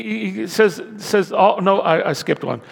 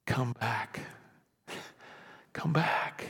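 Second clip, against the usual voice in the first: soft whispered call; 5 semitones lower, 14 dB quieter, slower than usual. Retold or imitated. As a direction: whisper it, unvoiced and hushed. God speaking softly to listeners.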